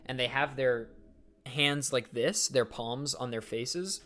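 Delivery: usual speaking voice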